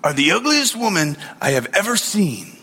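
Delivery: mock parrot repeating its insult. Parrot repeats the insult the next day, mild mock voice. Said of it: "the parrot looked at her and said".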